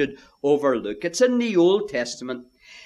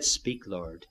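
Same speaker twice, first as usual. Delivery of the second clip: hushed reply; 12 semitones lower, 12 dB quieter than usual. Acted. Samuel finally answering God.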